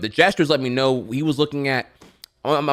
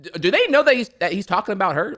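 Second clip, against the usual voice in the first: incredulous aside; 9 semitones higher, faster than usual. Retold or imitated. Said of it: "And I'm just like".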